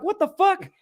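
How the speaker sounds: high-pitched incredulous reaction; retold shock. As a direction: squeak it out in disbelief. Retold shock at arriving car.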